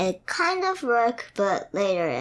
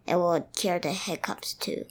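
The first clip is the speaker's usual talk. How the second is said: whispering; 2 semitones lower, 5 dB quieter than usual. Acted. Scary hiccup cure talk.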